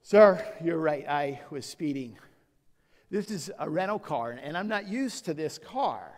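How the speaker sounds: sheepish excuse. Retold or imitated. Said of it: "first thing that comes out of my mouth".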